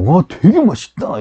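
slow, amazed "와"; exclaiming with feeling. Shown as a demonstration. Teacher models a real exclamation of delight, slow and amazed. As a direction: savor it, genuinely impressed by the food. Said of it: "이렇게 느낌이 들어갈 때".

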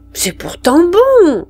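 put-on the canteen woman coaxes the children, slowly. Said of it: "dit la vivandière". (vivandière, voix plus aiguë et lente)

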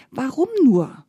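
high rise and fall on a lament; mildly plaintive farmer; plaintive wondering. A narrator's reading. Poor farmer wonders in despair.

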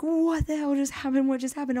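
high, loud incredulous cry; shocked disbelief. Retold or imitated. Asking Bama fans in the bar, high disbelief. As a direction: ask it like you can't believe it. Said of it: "I'm just like".

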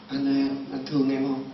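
hushed, lightly voiced possessed wife; ghostly possessed wife. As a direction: ask softly, as a ghost inside her. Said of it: "không phải cái kiểu mà nói bình thường".

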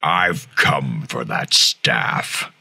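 loud robot voice with processing; Optimus Prime voice effect. Shown as a demonstration. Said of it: "my take on an Optimus Prime voice effect".

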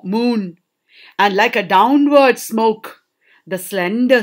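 measured, deliberate verse reading; poem recitation. Acted. Teacher reads Tennyson's poem to students, measured recitation. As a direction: read the poem aloud, slowing through the last lines.

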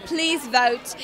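"Please vote" in a light mock British accent. Contestant asking fans for votes in a playful British accent. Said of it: "in your best British accent".

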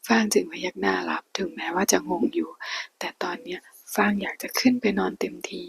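hushed storyteller reading a Thai romance aloud; whispered story reading. A narrator's reading. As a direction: read the novel in a hushed whisper.

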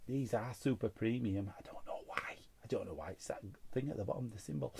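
whispered aside; hushed confiding mutter. Real, not acted. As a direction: drop into a whisper.

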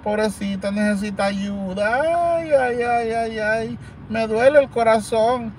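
lamento burlón, más agudo y lento, ay ay ay; llanto fingido. Retold or imitated. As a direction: imita exagerando a una mujer que llora. (se burla de la que llora en los audios, lamento fingido y agudo)

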